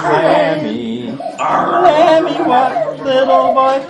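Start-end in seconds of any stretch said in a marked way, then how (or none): 1.4-3.8 high, sing-song question; high game voice. Acted. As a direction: ask like a chirpy game host. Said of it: "I did change my voice".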